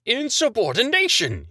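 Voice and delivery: high, loud shriek of outrage. Acted. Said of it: "he shrieked".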